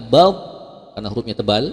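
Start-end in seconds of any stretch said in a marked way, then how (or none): 0.0-0.3 "ba" punched loud; emphasis. Shown as a demonstration. Teacher showing emphasis on "ba", loud. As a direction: hit "ba" hard and heavy. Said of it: "jadi ada penekanan ya".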